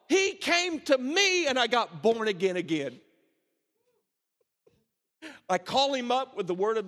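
ringing, exultant pulpit voice; excited preaching. Acted. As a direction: lift it with laughing joy. Joyful preaching of son's words.

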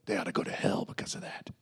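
whispered spiteful aside; low mocking whisper. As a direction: hiss it like a petty secret. Mocking a grudge-holding believer.

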